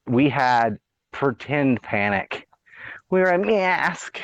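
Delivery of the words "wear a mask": high, slow mocking Wear a mask; sing-song taunt of a nagging voice; mock nag. Host mocking mask rules, high slow taunt.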